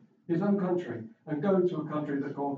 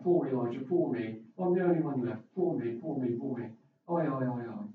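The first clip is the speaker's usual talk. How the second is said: self-pitying whine; 3 semitones lower than usual. Retold or imitated. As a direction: play it as a sorry-for-himself sulk. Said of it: "But then it all spills out".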